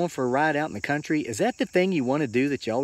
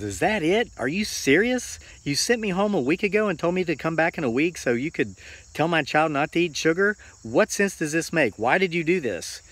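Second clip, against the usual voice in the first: raised, incredulous retold mother's voice; a mother demanding to know why, pitched up; indignant mother; 5 semitones higher than usual. Mother questions the monk, indignant and raised. Mother outraged at monk's answer.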